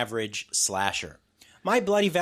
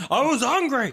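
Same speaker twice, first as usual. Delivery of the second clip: mock killer; 11 semitones higher, 5 dB louder than usual. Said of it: "He's like".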